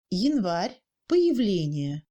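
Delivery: "Январь, появление" with Я said almost as i. Shown as a demonstration. Teacher showing reduction, "Январь, появление" with i-like Я. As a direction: turn unstressed Я to i in "Январь, появление". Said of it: "Le ya est prononcé presque i".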